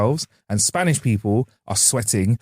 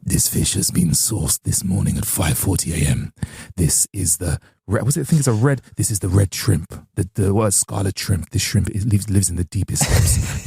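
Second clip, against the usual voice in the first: posh waiter. Retold or imitated. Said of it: "where the man comes up, he's like".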